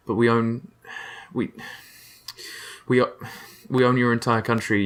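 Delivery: stammering mock disbelief; flustered protest. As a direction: keep restarting, lost for words. British flustered by colonists leaving.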